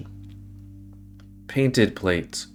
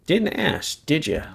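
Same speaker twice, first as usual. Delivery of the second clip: granny voice; 7 semitones higher than usual. Acted. Granny character voice in game.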